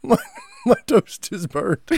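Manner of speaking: put-on a light take on a sulky kid; imitating daughter. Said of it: "And Hannah goes".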